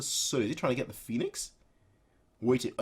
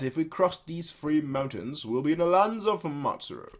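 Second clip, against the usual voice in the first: lightly voiced companion; 5 semitones higher, 3 dB louder than usual. Voicing the companion talking to Nagi.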